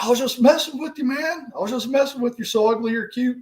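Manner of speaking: high, sweet mock baby talk; coaxing the dog. Trying to soothe the neighbor's bulldog, high cooing voice. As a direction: coo at the dog to make peace. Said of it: "I'm like".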